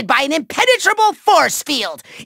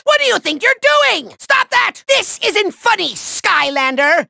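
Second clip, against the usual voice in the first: indignant scolding; 3 semitones higher than usual. Acted. Villain protesting as his Doomlander gets hit, indignant. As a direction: scold the hero in a hammy fluster.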